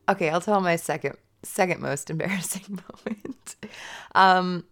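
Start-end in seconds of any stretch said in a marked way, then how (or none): 1.4-3.5 giggly embarrassed whisper. Real, not acted. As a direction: whisper it through a laugh. Embarrassed aside while laughing.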